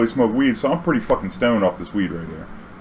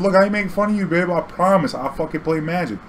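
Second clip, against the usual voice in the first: pleading, insistent; 8 semitones higher than usual. Retold or imitated. Driver insists to stripper he plays Magic, earnest high pleading. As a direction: protest your innocence, earnest and high.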